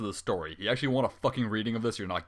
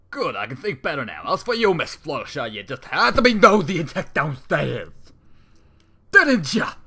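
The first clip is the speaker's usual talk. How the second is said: villain unicorn; 5 semitones higher, 11 dB louder than usual. Acted. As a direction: sneer at her like a gloating crook. Villain unicorn threatens Fluttershy.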